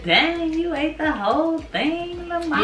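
imitating the child. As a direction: lightly mimic an astonished kid. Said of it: "She said".

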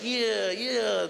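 drawn-out record-scratch effect; DJ scratching English. Acted. DJ messing with recorded English, drawn-out vinyl effect. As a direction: distort it like vinyl played backwards. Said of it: "took a D J of English".

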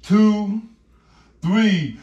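loud slow count like a wrestling ref; shouted referee count. Pretend. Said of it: "this is the referee counting".

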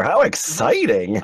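slow, deadpan sarcastic. Pretend. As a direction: say it with dry sarcasm. Sarcastic reply.

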